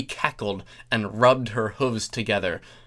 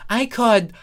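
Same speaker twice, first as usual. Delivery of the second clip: Thorax voice; 2 semitones higher than usual. Acted.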